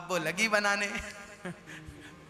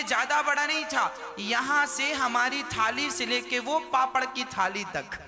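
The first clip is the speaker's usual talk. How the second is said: sly hint. Acted. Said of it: "तो उन्होंने बहाने से कहा".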